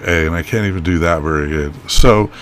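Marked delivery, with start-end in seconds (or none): 0.1-0.3 a half-hearted Canadian "eh". Shown as a demonstration. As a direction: toss off a weak Canadian "eh". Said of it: "I can only do".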